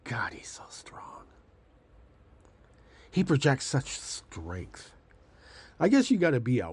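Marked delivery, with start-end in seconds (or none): 0.1-1.2 hushed, swooning mock admiration; mock adoring fan. Mocking MAGA fans swooning over Trump, hushed. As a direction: breathe it like a starstruck fan. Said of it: "and maga will say".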